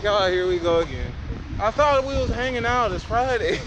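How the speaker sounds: imitated fed-up girlfriend. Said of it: "she just looked down like".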